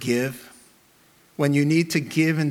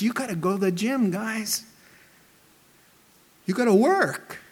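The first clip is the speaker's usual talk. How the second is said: rousing coach; 6 semitones higher than usual. Pretend. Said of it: "he says".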